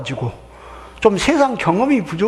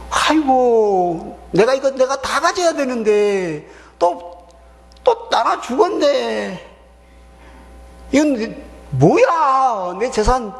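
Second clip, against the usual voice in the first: greedy whining brother; 6 semitones higher, slower than usual. Retold or imitated. Voicing the greedy elder brother.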